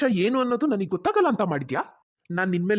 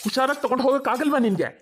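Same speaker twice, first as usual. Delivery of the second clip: sharp, raised scolding of his wife; angry scolding; 5 semitones higher than usual. Acted. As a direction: snap at her for dropping the plates. Husband scolds wife over dropped plates.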